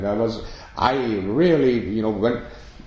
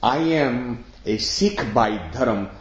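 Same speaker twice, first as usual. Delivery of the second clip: slow declaration; slower than usual. Retold or imitated. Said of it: "When we say".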